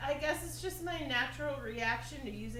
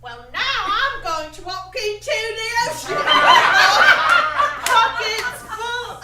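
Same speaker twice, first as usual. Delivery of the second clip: loud, high mock British stage voice; hammed-up British tragic line; British accent; 7 semitones higher, 16 dB louder than usual. Actress tries a British accent on her tragic line. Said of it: "a British accent might, you know, work better".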